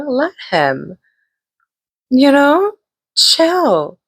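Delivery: high, laughing sass; high-pitched amused scolding of her friend; high sassy. Retold or imitated. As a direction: tell her to chill, amused. Telling friend to calm down.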